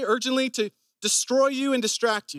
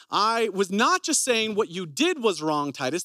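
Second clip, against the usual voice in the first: plain correction. Shown as a demonstration. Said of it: "That would have been conviction".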